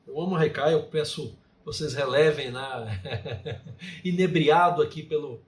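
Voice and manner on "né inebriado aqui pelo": amused chuckle. Real, not acted. Laughs at own rapt recital.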